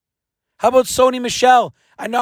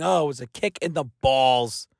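low grumble; 9 semitones lower, 6 dB quieter than usual. Real, not acted. Aside about the loss.

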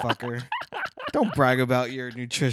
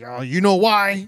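slow, louder, smug come-ask-me tone; smug stranger; 7 semitones higher, 8 dB louder, slower than usual. Retold or imitated. Imitating the sign guy on Fremont, slow smug bait. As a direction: bait someone into asking about your sign. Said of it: "just so he can, like".

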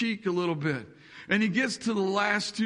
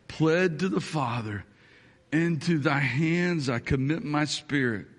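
solemn reverent tone; 3 semitones lower than usual. Retold or imitated. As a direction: speak of the cross with hushed gravity. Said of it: "and says this".

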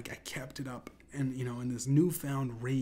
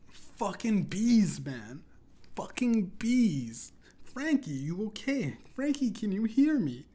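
high, loud, slow anguished yell; 9 semitones higher, 7 dB louder, slower than usual. Retold or imitated. Holding the stung friend, high desperate yelling. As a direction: scream over a fallen friend. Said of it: "held him close and yelled".

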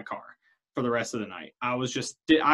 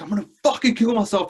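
higher, louder, voicing the drunk friend's despair; 7 semitones higher, 4 dB louder than usual. Drunk friend threatening to kill himself, raised despairing voice. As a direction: threaten it like someone at the end of his rope.

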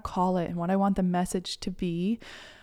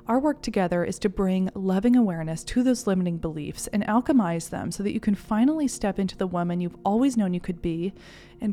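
ad read. Acted. Program ad read.

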